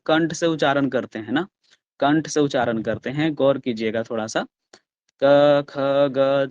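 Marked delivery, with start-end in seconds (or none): 5.2-6.5 क, ख called out loudly from the throat; loud demo. Shown as a demonstration. Teacher showing the class how to sound क, ख loudly. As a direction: belt out क and ख with no shyness. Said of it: "थोड़ा सा loud".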